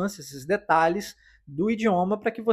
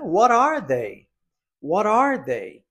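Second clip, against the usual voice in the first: slow teaching pronunciation of "What are they?"; slow, clear model question; 4 semitones higher, 4 dB louder, much slower than usual. Shown as a demonstration. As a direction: say it slowly, each word distinct. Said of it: "quais são esses hobbies". (pergunta lenta e clara, modelo para repetir)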